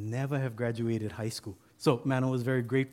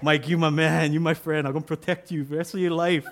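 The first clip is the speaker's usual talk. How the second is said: loud, joyful thanks with a laugh; Mano thanking Mike, happy and relieved; happy and grateful; 3 semitones higher, 5 dB louder than usual. Retold or imitated. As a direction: gush to your best friend. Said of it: "Now Mano's all happy".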